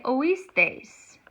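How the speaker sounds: oísteis as o-EES-teis, stress on the í; accented í. Shown as a demonstration. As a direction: keep o and í apart in oísteis, hitting the í. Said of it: "need that accent 'cause I wanna say".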